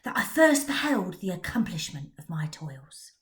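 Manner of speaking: hushed, spooky tale-telling; spooky storybook voice; storyteller reading. A narrator's reading. Narrator telling a Frankenstein tale.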